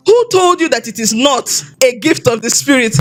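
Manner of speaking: retold calm reassurance; calm, matter-of-fact. Pastor answers her confession after the meeting, calm and matter-of-fact. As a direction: imitate a pastor asking evenly, unhurried. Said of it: "he said it so calmly".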